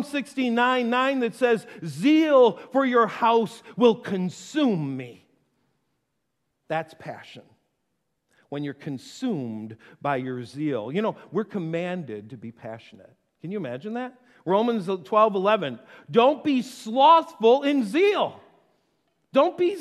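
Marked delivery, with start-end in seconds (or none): 1.9-5.2 slow solemn scripture reading. Acted. 16.1-18.4 slow scripture reading. Acted.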